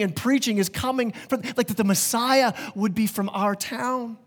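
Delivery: a hint of amazed neighbours gossiping; lightly voiced townspeople marveling at Joe's kid; hometown crowd.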